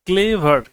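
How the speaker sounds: ক্লেভার split into two beats, ক্লে-ভার; two-syllable demonstration. Shown as a demonstration. Teacher showing ক্লেভার cannot be said at once, two separate syllables. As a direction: sound out both syllables of ক্লেভার. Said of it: "একবার উচ্চারণ করা যায় না".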